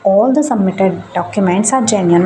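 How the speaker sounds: very slow, word-by-word read of the clause; slow read-aloud of the form line; slow formal reading. Acted. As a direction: read it out carefully for viewers.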